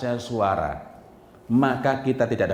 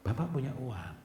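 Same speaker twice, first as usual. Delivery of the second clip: put-on much softer, tender explaining to a child; gentle apology; 5 semitones lower, 13 dB quieter than usual. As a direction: soothe the child softly. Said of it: "Jadi ada penjelasan".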